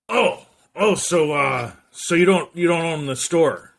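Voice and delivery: high, loud boss impression; taken-aback boss on the phone; Peter Parker's boss. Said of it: "he had, like, the voice of".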